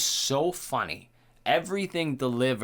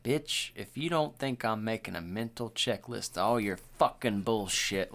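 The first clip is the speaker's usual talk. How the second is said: stinging, no joke. Shown as a demonstration. Host shows how he'd say it to a lady, stinging. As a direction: say it seriously, slowing on the final curse. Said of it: "like, with sting to it".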